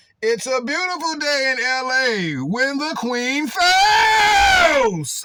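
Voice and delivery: very slow, drawn-out, swooping high sing-song voice. Giving a shout-out while quoting a podcaster, in a Joe Budden voice. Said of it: "let me get in my Joe Budden voice".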